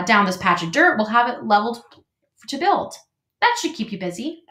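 chatty, welcoming beaver; friendly beaver voice. Acted.

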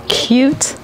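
ordinary talk

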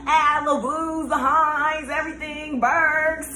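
high, loud, drawn-out roll call. Real, not acted. Hyping up all her cousins by name, calling out. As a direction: shout out each family name.

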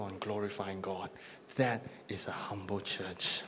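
soft whispered clincher. Real, not acted. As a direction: breathe the conclusion out. Pastor closes point softly.

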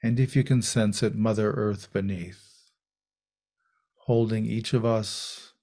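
unhurried meditation guidance with long pauses; guided meditation. Real, not acted. Teacher guiding a group into meditation, calm and unhurried. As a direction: settle into a calm voice, leaving space between phrases.

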